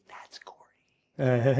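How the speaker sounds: slow, voiceless whisper; mouthed whisper. Retold or imitated. Cellmate mouthing a warning about Gordy, slow whisper. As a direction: barely mouth the name, slowly. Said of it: "he's mouthing to me".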